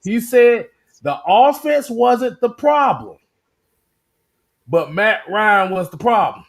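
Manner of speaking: slow, with a long pause before "but Matt Ryan"; deliberate repeat. Shown as a demonstration. Host repeating a driver's claim for the chat, slow and deliberate. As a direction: spell out "The offense wasn't the problem", halt, then drop on "but Matt Ryan". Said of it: "let me repeat that again".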